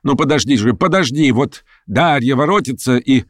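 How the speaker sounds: высокий торопливый уговор больного; упрашивай, как капризного ребёнка, повыше; уговаривает, как ребёнка. A narrator's reading. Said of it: "уговаривала она его, как ребёнка". (уговаривая, как дитя)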